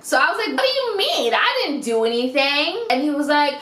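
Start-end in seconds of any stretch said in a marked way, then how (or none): 0.6-2.8 retold indignant squeal; indignant protest. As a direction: protest your innocence, pitched up.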